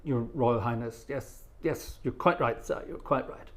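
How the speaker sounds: quiet, polite agreement with a royal; deferential listener. Acted. Baffled listener agreeing with the Duke of Kent, softly deferential. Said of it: "you stand there and say".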